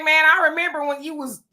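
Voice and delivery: mocking heckler. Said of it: "And be like".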